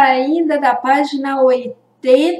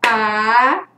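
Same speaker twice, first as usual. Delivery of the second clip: "A" held long as one separate sound; sílaba isolada. Shown as a demonstration. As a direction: sound out "A" slowly, on its own. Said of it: "Eu falei". ("A" bem alongado, um som só)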